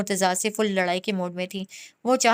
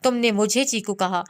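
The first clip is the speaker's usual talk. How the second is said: level, pressing anger on तुमने; understated angry repeat; low-key anger. Acted. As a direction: demand it again, menacing. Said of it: "Murtaza गुस्से से उसके करीब आया".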